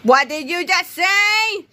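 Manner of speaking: high, slow disbelieving shriek; rising outrage. A narrator's reading. Secretary outraged at the fourth grader, high slow shriek. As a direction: let the fury climb. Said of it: "becoming a scream".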